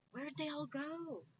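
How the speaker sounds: high, slow witch voice. Acted. Witch Gritch asking where the pigs went, high and slow. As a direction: ask it high like a puzzled witch. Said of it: "Gritch shouted to a duck".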